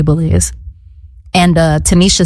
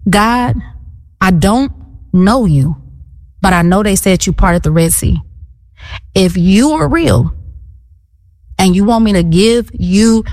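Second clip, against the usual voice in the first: with attitude. Retold or imitated. Unbeliever challenging God outside a locked church, with attitude. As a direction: pray like you're laying down terms, pauses between phrases. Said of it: "I said it with an attitude".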